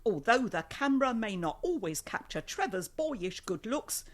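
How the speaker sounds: measured, careful read-out; recited personal profile; reading a profile aloud. Acted. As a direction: read it out like a written description. Reads a dating profile aloud.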